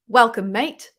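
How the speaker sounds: playful Australian greeting; Australian accent. Pretend. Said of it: "Here's my Australian accent".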